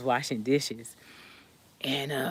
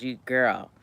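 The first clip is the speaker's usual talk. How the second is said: calm; 5 semitones lower than usual. Retold or imitated. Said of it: "she's all calm, right?".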